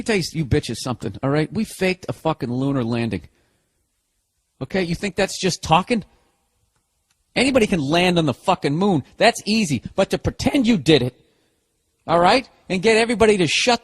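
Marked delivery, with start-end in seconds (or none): none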